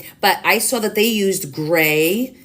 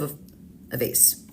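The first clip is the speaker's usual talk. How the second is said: whisper; 4 semitones lower, 10 dB quieter, much slower than usual. Real, not acted.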